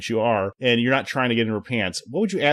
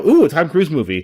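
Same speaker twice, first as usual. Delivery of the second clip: a little higher, louder ooh of delight; mock excitement; 4 semitones higher, 5 dB louder than usual. Fan hears of a new Tom Cruise film, light mock excitement. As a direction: gush about the movie like a fan. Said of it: "I get excited now".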